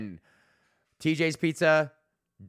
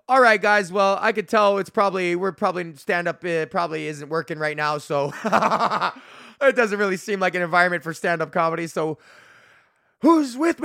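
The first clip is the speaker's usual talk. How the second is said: loud, higher host voice rallying a chattering crowd; emcee on the mic; 4 semitones higher, 5 dB louder than usual. Retold or imitated. Comedian re-enacting his stage address to a noisy bar, loud emcee. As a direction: sell it like a bar emcee losing the room. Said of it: "and I go".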